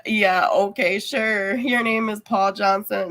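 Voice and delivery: lightly sarcastic, disbelieving reply; dry, skeptical playing along in own accent; mock agreement. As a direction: humour the caller without believing a word. Acted disbelieving reply to scammer.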